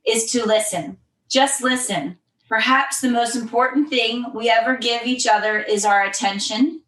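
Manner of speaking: measured reading of a reflection; steady, deliberate read-aloud delivery. Acted. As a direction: read an inspirational passage evenly. Reads a written passage aloud.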